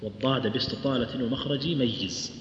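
والضاد read as object of ميز, flowing on to ميز; slow parsing demonstration. Shown as a demonstration. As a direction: read والضاد باستطالة ومخرج ميز in one phrase ending on ميز. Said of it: "وتقرأ والضاد على النصب".

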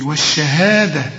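والشهادة with a held HAA; full long alif. Shown as a demonstration. Teacher shows full alif, lengthened والشهادة. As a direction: stretch the ها in والشهادة, thin and full. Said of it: "تمدها ألف كاملة".

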